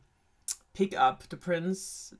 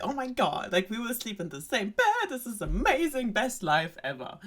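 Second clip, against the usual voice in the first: higher-pitched, thrilled mock gush; ecstatic frog; 5 semitones higher than usual. Frog learning he shares the princess's bed, ecstatic. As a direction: gush as if it's a dream come true. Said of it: "He's ecstatic".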